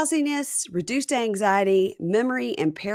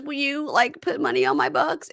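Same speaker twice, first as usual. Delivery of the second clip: wife; 8 semitones higher than usual. Retold or imitated. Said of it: "And she goes".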